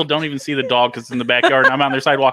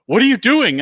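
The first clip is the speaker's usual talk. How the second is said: neighbor yelling out back door; 10 semitones higher, 6 dB louder than usual. Retold or imitated. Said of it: "He's like".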